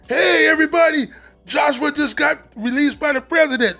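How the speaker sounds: high, loud imitated holler; announcing to everybody. Friend on top bunk telling the unit, imitated announcing. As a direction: proclaim it to a whole room. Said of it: "gets on the top button, goes".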